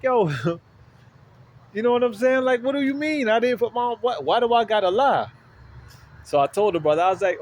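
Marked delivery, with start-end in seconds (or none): 0.0-5.3 much higher-pitched, acted-out disbelief; incredulous protest. Man wrongly called a liar, high-pitched incredulous inner protest.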